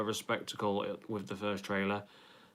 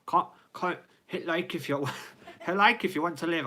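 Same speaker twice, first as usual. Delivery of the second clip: higher-pitched, badly faked Scottish accent; 7 semitones higher than usual. Streamer trying it on his wife's request, bad Scottish accent. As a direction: have a giggly go at a Scottish accent. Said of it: "Do it in a Scottish accent".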